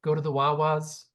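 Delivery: shaky attempt at a Philly accent. Shown as a demonstration. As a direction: have a go at sounding Philly. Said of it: "I can't really do it".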